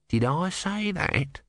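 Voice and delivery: tortoise voice. Acted. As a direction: wonder aloud, slowly. Tortoise voice in narration.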